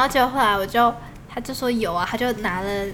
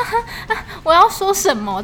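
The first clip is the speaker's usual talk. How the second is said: put-on shy boyfriend; 6 semitones higher than usual. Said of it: "他就这样很害羞".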